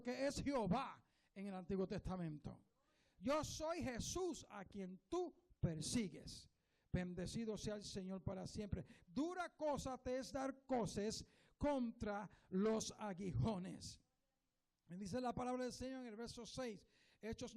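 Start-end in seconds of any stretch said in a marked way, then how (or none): 3.2-14.0 slow, set-apart voice with a lowered, drawn-out close; lightly voiced Jesus rebuking gently and slowly. Preacher repeating Jesus's words to Saul, slow and set apart. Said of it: "Y el Señor le dijo".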